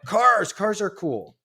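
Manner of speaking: high, eager burst, loud first word; re-enacting boyish enthusiasm; retold kid excitement. Acts out his eager younger self.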